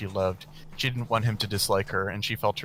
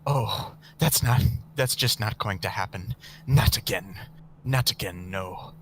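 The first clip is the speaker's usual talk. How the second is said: hateful; 4 dB louder than usual. Acted. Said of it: "Camilla's voice was stronger and more hateful".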